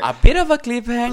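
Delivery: fast, high, loud incredulous echo; teasing shock; mock disbelief. Real, not acted. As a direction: throw her words back at her, amazed. Echoing friend in mock disbelief.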